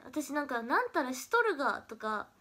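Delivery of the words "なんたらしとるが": demonstrating Okayama dialect, が ending emphasised. Shown as a demonstration. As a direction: show the Okayama しとるが ending. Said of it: "岡山弁だって知ってたんだけど".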